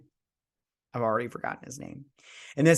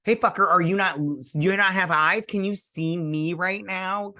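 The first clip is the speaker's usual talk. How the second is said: exasperated mock rant; 6 semitones higher than usual.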